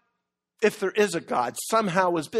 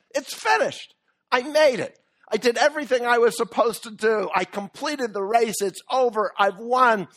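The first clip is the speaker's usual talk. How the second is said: higher, louder cry of a runner who made it; exhausted triumph; 4 semitones higher, 3 dB louder than usual. Retold or imitated. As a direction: gasp it out at the finish line, elated. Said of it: "marathon runner ... and says".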